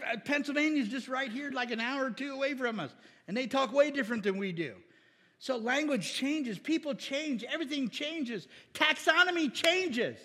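ordinary talk

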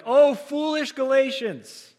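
full-voiced preacher's rebuke. Shown as a demonstration. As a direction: project Oh, foolish Galatians to the back row, Oh stretched. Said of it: "Maybe I need to be a little louder there".

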